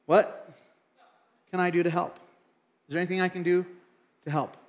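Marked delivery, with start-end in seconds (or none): 0.0-2.2 "What" set apart by a long pause; slowed delivery. Shown as a demonstration. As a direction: pause after What to let it land. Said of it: "Here's the question".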